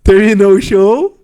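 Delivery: "show" loud and stretched out; slow, loud correction landing hard on "show"; emphatic correction. Real, not acted. Podcast guest fixing his slip of the tongue, "show" heavily emphasized.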